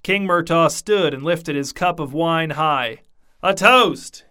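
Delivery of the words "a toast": put-on drunk slurred voice. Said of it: "in a loud, slurred voice".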